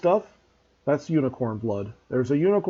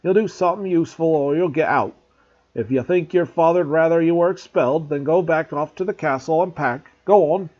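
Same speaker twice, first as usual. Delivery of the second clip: louder, higher gruff scolding; growled; 4 semitones higher, 6 dB louder than usual. A narrator's reading. Groundskeeper scolding a spoilt pupil, growling. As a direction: growl the rules at him. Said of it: "Hagrid growled".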